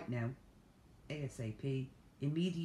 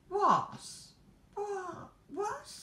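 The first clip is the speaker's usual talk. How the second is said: squeaky disbelieving shrieks, each higher; climbing shrieks of disbelief; incredulous what; 5 dB louder, much slower than usual. Real, not acted. Vlogger shrieking at a badly drawn Santa, disbelief. Shocked at legless Santa pattern.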